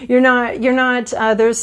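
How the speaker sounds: ordinary talk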